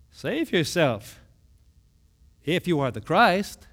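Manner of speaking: mild mocking taunt; scoffing. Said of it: "they're scoffing".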